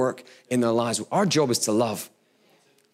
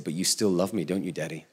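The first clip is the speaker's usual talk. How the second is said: put-on soft, hushed little-boy plea; 6 semitones lower, 5 dB quieter than usual. Son asking his father after being told off, softly pleading. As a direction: ask it tiny and hopeful. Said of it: "And he said".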